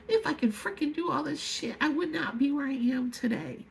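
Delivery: frustrated, pitch jumping up at the start; exasperated near-yell. Real, not acted. Speaker rebutting people who say just stop eating, exasperated. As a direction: vent it hard without truly yelling. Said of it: "I don't mean to sound like I'm yelling at you all".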